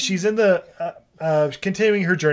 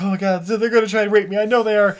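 quick, higher-pitched mock alarm; mock panic; 4 semitones higher, 4 dB louder, faster than usual. Retelling the hiding heroine, mock panic. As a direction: blurt it out in lightly acted panic. Voices heroine fearing the sailors.

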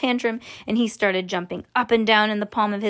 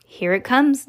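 a touch raised, excited announcement; lightly voiced yell; mild yell; 3 semitones higher, 4 dB louder than usual. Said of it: "yelled Mister Wonka".

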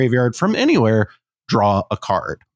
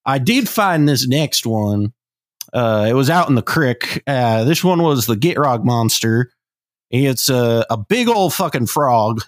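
put-on Midwest Southern accent; 2 semitones higher than usual. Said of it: "the Midwest Southern".

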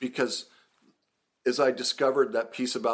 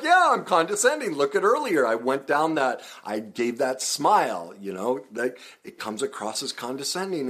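high, loud and amused; cracking up while owning it; amused agreement; 5 semitones higher, 4 dB louder than usual. Real, not acted. Host laughing off an insult, amused and loud. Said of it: "I just cracked up".

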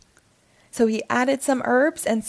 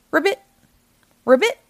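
high, louder ribbit croak; frog croak; 7 semitones higher, 7 dB louder, faster than usual. A narrator's reading. Witch turned frog croaking at the cat, high and loud. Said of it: "said the frog".

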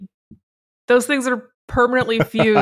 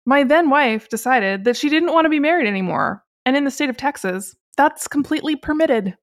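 lightly acted, higher-pitched quotation of a podcaster; Stephen Chowder quote; 4 semitones higher than usual. Host reads out podcaster's divorce announcement, lightly acted quote. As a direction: read his statement out in a raised, put-upon voice. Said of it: "Anyway, what Stephen says".

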